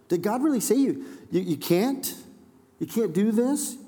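a sly, questioning serpent tone; incredulous inflection. Shown as a demonstration. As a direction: sneer it like a tempter sowing doubt. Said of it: "you can almost hear the inflection on it".

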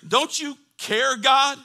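loud, high cry to God; slow, drawn-out challenge; mock anguished shout; acted desperate plea. Preacher voices people questioning God.

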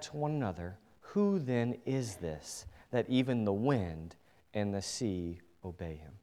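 measured, dramatic reading of the gospel; scripture reading. Acted. Preacher reading scripture to the congregation, dramatic. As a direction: read the storm passage to the church. Reads the gospel passage aloud.

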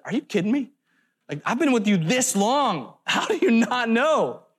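a hint of mock exasperation, ending in a laugh; exasperated Jesus. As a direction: lightly play the disbelieving teacher with a small laugh. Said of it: "it almost sounds exasperated".

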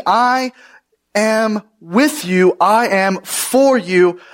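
slow, weighty stress on "I" and "love you"; emphatic I. Acted. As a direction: lean on each "I", pausing and stretching the key words. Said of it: "the term I is very, very emphatic".

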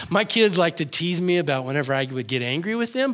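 ordinary talk

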